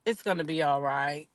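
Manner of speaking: a hint of a husband comforting; mock consoling. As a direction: lightly play the calm husband soothing his wife. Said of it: "told her".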